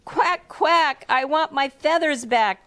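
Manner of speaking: high indignant duck voice; naked duck demanding its feathers. Acted. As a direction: insist like a featherless duckling. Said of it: "demanded the featherless little duck".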